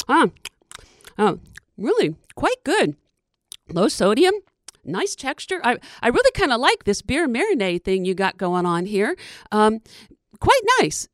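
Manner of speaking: chatty, relishing critter; groundhog voice. Acted. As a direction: savor it like a gourmet critter. Groundhog savoring slugs, chatty.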